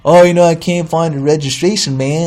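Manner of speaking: lightly voiced laid-back clerk; clerk's voice. New clerk excusing herself on her first day, lightly put-on voice. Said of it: "doing the voice".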